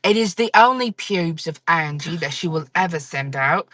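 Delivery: put-on accent of a gold Labubu influencer; imitated influencer accent. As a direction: announce it grandly in a mimicked influencer accent. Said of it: "I'm gonna do that exact accent too".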